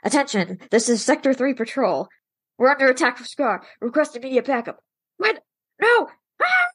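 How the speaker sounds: nasal voice with a pinched nose; holding nose. Retold or imitated. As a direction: talk while pinching your nose. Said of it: "impersonate him with, like, he was holding his nose".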